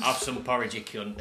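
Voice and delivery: put-on lightly done Yorkshire accent; gruff Yorkshire hard man, lightly; Sean Bean impression. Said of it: "I did it as Sean Bean".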